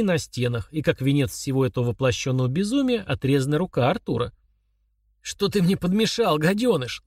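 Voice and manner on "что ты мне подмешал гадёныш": hateful shout. Acted. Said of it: "задыхаясь от ненависти, закричал он".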